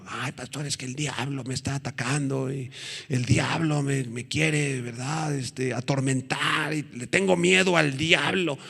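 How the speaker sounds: imitating a timid, complaining believer in a softened voice; mock fearful Christian. Preacher mimics believers telling their pastor of the devil, mock fearful. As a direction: play a frightened churchgoer, small and hushed. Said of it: "Muchos cristianos le tienen miedo al diablo".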